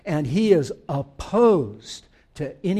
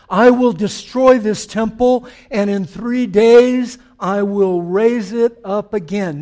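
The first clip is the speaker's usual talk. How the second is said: louder, slow and commanding; loud proclamation; 2 semitones higher, 7 dB louder, slower than usual. Shown as a demonstration. Preacher declaring Jesus' words to the congregation, loud and slow. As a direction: proclaim it like Jesus announcing the sign. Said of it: "Verse nineteen".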